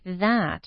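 That with tongue between teeth; exaggerated th practice. Shown as a demonstration. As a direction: stretch the th in That. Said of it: "stick your tongue between your teeth".

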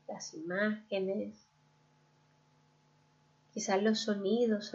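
calm guided-visualization voice with long pauses; guided meditation. Real, not acted. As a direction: lead the listener gently inward, leaving room to breathe. (meditación guiada, pausada y serena)

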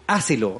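mock the spelling by stressing the accented syllable of Hácelo; Hácelo, read literally with the typo's stress; misplaced written accent. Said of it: "mira este buen acento".

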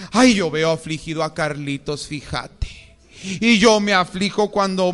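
sighing mock lament over Carlitos; whiny mock voice. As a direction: imitate someone moping along. Mimicking a codependent person.

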